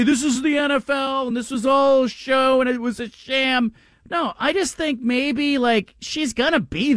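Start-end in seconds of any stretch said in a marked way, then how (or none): 0.0-3.7 mock outraged fan. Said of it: "they're gonna say".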